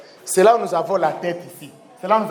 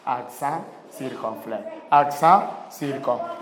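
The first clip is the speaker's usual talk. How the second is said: low, soft, slow model; slow quiet model; 9 semitones lower, 5 dB quieter, slower than usual. Shown as a demonstration. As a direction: say it softly while drawing in the air. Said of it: "de le dessiner au ta-, au, à l'air".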